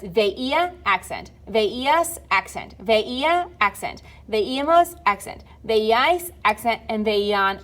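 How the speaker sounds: slow drill, leaning on the í in veía, veías, veíamos; teacher's deliberate list, each í of veía and veíamos stressed. Shown as a demonstration. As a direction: lift the accented í of veía, veíais, veían, then name the accent. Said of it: "They all have the accent over the I".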